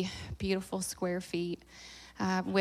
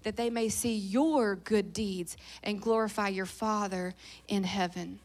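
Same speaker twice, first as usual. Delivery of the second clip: scripture reading; 5 dB quieter than usual. Real, not acted. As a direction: read it out deliberately, settling softer at the end. Last verse, sixteen.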